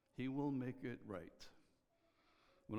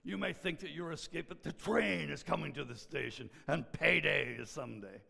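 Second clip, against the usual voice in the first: put-on thick southern accent; 5 semitones higher, 9 dB louder than usual. Old preacher warning his congregation, loud thick Southern accent. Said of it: "in this really thick southern accent".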